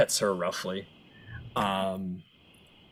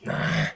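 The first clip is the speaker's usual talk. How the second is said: low grunt; 12 semitones lower, 4 dB louder than usual. Acted. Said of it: "he goes".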